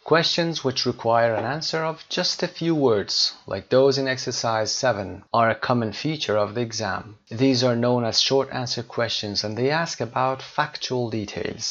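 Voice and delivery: slow, careful read of the English text; measured textbook reading; reading the textbook aloud. Acted. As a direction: read it out slowly for the class. Reads textbook passage aloud.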